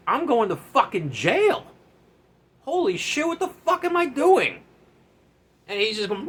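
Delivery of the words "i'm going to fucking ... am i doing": high, panicky disbelief; panicked. Retold or imitated. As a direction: squeal it out, freaking out. Panicking while friend turfs course.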